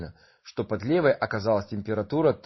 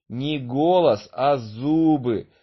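laughing; 3 semitones higher, 4 dB louder, slower than usual. Acted. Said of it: "засмеялся Чуба".

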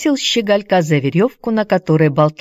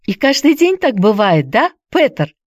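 put-on high, eager girl's question; ask, inspired and hopeful; 7 semitones higher than usual. A narrator's reading. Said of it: "воодушевлённая его словами". (воодушевлённый вопрос)

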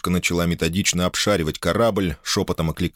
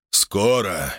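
booming; 4 semitones higher, slower than usual. Acted. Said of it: "громогласно изрёк Кацулас".

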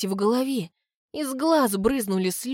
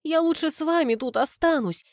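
much higher, earnest; sincere assurance; 7 semitones higher than usual. A narrator's reading. The girl assures Graham sincerely, high and earnest. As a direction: promise with all your heart. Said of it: "искренне заверяю".

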